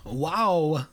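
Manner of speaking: halting phrases with pauses between them; Christopher Walken. Acted. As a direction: break the line up oddly, unhurried. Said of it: "Anyway, Christopher Walken".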